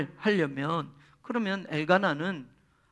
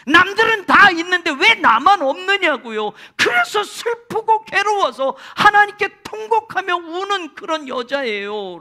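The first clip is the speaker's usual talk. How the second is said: much higher, louder tearful confession; grieving plea; 11 semitones higher, 9 dB louder than usual. Retold or imitated. Hannah explaining herself to Eli, high tearful plea. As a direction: pour out her sorrow, near wailing. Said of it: "라고 말을 합니다".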